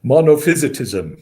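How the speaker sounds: monophysitism with "phys" said like "fizz"; correct pronunciation demo. Shown as a demonstration. Guest showing the host how to say it, correct pronunciation. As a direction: model monophysitism clearly, short i in "phys", falling at the end. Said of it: "is that how you say it?".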